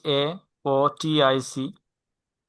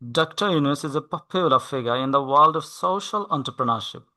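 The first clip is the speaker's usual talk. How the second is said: slow model reading; much slower than usual. Shown as a demonstration. Tutor reading the sentence slowly for the student to repeat. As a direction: read it very slowly, word by word. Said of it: "এই সেন্টেন্সটা বলেন তো".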